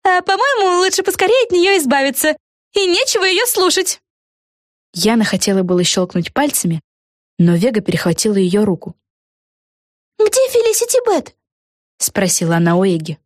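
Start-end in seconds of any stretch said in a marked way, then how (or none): 0.0-4.0 high, curt advice; high, dismissive; dismissive girl. A narrator's reading. Character line. 10.2-11.4 very high, stressed где; very high, insistent; demanding girl. A narrator's reading. Vega demands.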